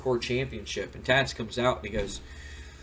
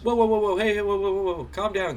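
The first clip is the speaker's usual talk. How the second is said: mock calming yell; 8 semitones higher than usual. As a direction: play Shane stepping in, voice up. Shane breaks up the argument.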